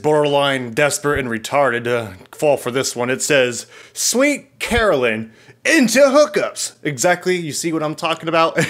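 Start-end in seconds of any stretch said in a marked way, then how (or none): 3.9-6.7 camp up the fake bio; mock sultry read. Reading scam profile mockingly.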